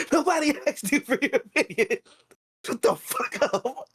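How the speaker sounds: high, slow mock angry snap; a rude customer telling a woman off, mock furious; angry guy. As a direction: spit it out in a hammed-up rage. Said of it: "And the other guy goes".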